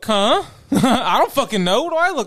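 mock sarcastic tone. Acting out her reply to someone asking about plates, acting out a sarcastic reply. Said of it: "I'm being sarcastic".

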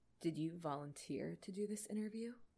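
hushed, deadly still, deadly quiet voice. Reading a novel aloud with another reader, voicing the man: deadly quiet voice. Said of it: "his voice deadly quiet".

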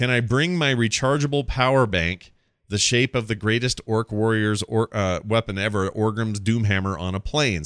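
ordinary talk

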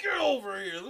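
fierce fighter's battle cry voice.

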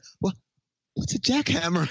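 timid, meek voice. Retelling a movie scene, quoting the man's line: imitating a meek question. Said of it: "he so meekly says".

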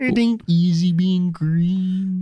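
put-on impersonation voice, high-pitched, slow and drawn-out. Answering the frog as a pig puppet: Miss Piggy voice. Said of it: "Kermit and Miss Piggy impersonator".

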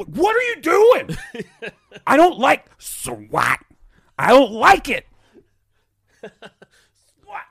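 acted furious yelling, very high, shrill and swooping. Retelling how an angry boy started yelling at him mid-game; imitating someone yelling. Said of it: "he starts yelling at me".

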